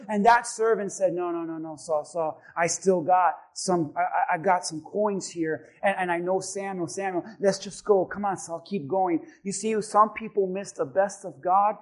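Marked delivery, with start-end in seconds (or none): 1.1-9.3 calm a frustrated companion and nudge him onward; gentle coaxing. Retold or imitated. Servant coaxing Saul not to quit.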